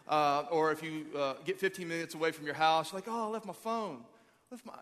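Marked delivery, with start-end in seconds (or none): 3.1-4.7 high-pitched fretting over a forgotten thing; comic high-voiced dismay; mock panic. Acts out realizing phone is forgotten.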